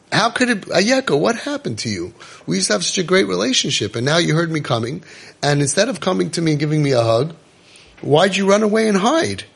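put-on a loving father asking why his child ran; God pleading.

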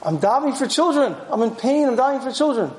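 earnest pleading. Retold or imitated. Hannah tells Eli why she is davening, pleading. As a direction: plead your case, imitating her.

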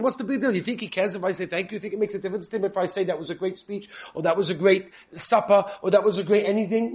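high scoffing voice of a doubter; mock the careless husband's shrug; dismissive skeptic. Preacher voicing a husband who shrugs off thanks, scoffing. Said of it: "They think".

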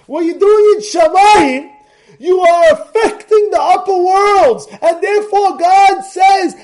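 preacher warning the congregation, loud and fervent; fervent preaching. Acted. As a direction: drive the point home like a fired-up preacher. Preaching about Shabbat.

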